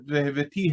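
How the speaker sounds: "והבאתי" with the accent on the final syllable, ve-hev-e-TI; stress on the last syllable. Shown as a demonstration. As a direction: land on the end of "והבאתי", ve-hev-e-TI. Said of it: "has an ultimate accent".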